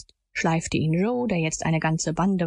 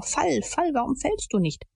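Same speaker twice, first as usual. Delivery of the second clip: panting urging; 7 semitones higher than usual. A narrator's reading. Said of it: "Zuweilen stieß Tom hervor".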